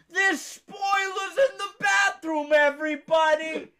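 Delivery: high, loud, drawn-out alarm cry; mock public warning. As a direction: warn the whole community of spoilers. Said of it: "a community he can warn quick".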